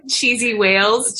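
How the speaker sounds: slow, laughing through the words. Real, not acted. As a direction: savour the silly phrase while laughing. Repeating joke while laughing.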